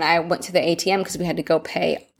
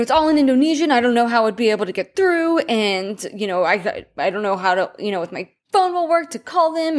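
frustrated; 5 semitones higher than usual. Retold or imitated. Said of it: "so mad at every single thing".

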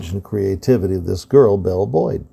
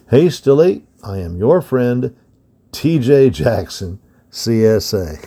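put-on steady storyteller reading an old history book; story narration. A narrator's reading. To young listeners, reading a Civil War book in narration voice. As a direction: read it out like a bedtime history lesson.

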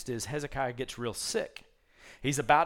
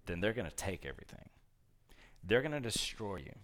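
grave prophecy; 7 semitones lower, 8 dB quieter than usual. Retold or imitated. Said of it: "Isaiah basically says".

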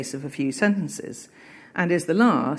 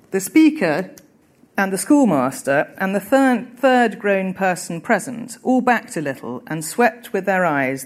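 raised, deliberate reading voice lifting the key phrases; literary reading aloud. A narrator's reading. Teacher reads the Dickens opening to students, emphatic reading voice. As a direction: read the classic novel to the class with weight. Reading resumes after the quote.

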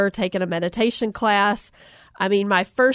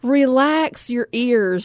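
zen instructor; 2 semitones higher, slower than usual. Retold or imitated. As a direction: float it out like a calm yoga guide. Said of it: "she said".

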